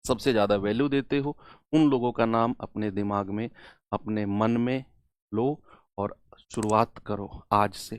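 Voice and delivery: low, hushed and sincere; gentle, reverent. Real, not acted. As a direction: softly guide students into a quiet moment of remembrance. Solemn moment before starting class.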